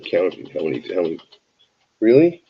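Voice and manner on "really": loud, high, fed-up Really; yelling at the animal mid-story; exasperated shout. Real, not acted. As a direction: snap at the pet in disbelief. Rat splashing water, exasperated.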